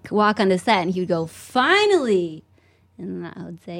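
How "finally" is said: drawn-out, higher "finally"; mock exasperated greeting. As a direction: stretch it out in mock relief. Imitating Colin arriving on set.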